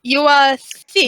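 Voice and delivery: put-on slow, blunt, vaguely German accent; deliberate accusation in a fake German accent; lightly put-on German accent. Priestess accusing the thief, slow fake German accent. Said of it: "Why is she German?".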